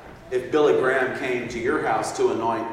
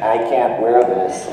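laughing complaint; 4 semitones lower, 5 dB louder than usual. Retold or imitated. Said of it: "I can hear him saying".

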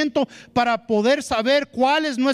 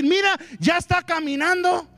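put-on high, bright bragging to the pastor about a growing child; proud excited parent; 5 semitones higher than usual. A proud spiritual father bragging to Pastor Gama, excited and high. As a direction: gush like a thrilled spiritual father.

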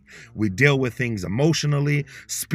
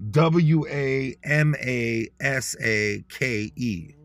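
letters spelled out slowly one by one; W A M A S A K, each letter spaced out; slow spelling; much slower than usual. Shown as a demonstration. Spelling the word slowly for listeners. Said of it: "Say it again for your dirty ears".

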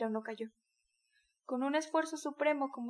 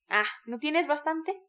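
slow, raging, louder bellow; furious bellow; 3 semitones higher, 6 dB louder, slower than usual. A narrator's reading. Micolca yelling at the worn-out mare, slow enraged roar. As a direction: drag each word out in rage. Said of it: "vociferó Micolca enloquecido de rabia".

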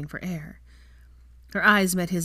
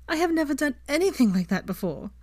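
a higher, giddy woman's voice; 9 semitones higher than usual. A narrator's reading. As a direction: say it much higher, still giddy. Giddy after laughing.

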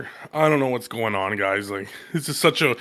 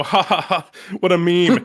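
mocking laugh; 5 semitones higher than usual. Mocking laugh at the nerf idea.

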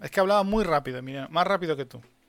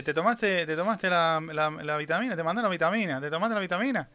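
imitating her hurried, repetitive questioning, pitched slightly up; mock hurried singsong interrogation; rapid-fire questioning; 2 semitones higher than usual. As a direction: pester with the same question, tripping over it. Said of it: "Pero hablaba muy rápido".

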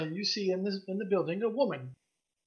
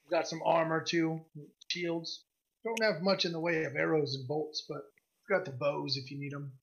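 lightly voiced gruff woman shopkeeper; a hint of gruff merchant. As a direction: greet a customer in a mildly gruff voice. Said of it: "she's got this gruff voice".

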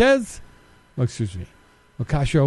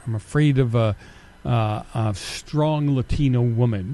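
lower, slow, mock-earnest parody of the accuser; mocking quote; 4 semitones lower than usual. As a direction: mimic the critic with a sneer. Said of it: "somebody accused me of".

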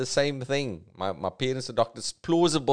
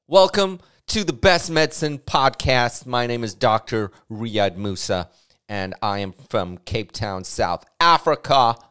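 mock announcer voice; 5 dB louder than usual. Shown as a demonstration. Comic parodying a podcast host intro, hammed-up and loud. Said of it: "That's how I'm gonna be doing the podcast".

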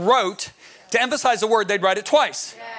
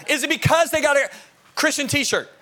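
higher, leading question; dad quizzing sons; 5 semitones higher than usual. Retold or imitated. Father testing his sons with silly options, leading. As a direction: pitch it up, baiting them for a no.

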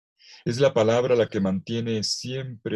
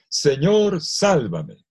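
cry for help; 6 semitones higher, 5 dB louder, much slower than usual. Acted. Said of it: "se puso a gritar".

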